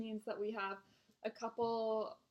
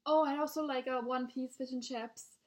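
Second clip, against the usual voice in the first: mock British customer, higher and louder; British accent; 4 semitones higher, 7 dB louder than usual. Regular adds food to his order, put-on British accent. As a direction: imitate a British diner ordering. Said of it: "he has a British accent".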